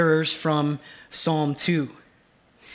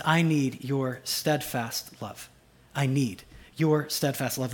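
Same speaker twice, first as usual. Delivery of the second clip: slow call phrase; 4 semitones lower, 5 dB quieter than usual. Shown as a demonstration. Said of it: "Here's the second one".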